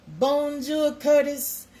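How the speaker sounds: high, loud sing-song bonjour; cheery French greeting. Shown as a demonstration. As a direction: call out a bright hello to Charlene. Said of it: "that's my French".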